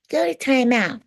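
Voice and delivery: a light stern timeout order; mock strict parent. Mocking another parent's timeout order, lightly stern. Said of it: "I'm not like those white people".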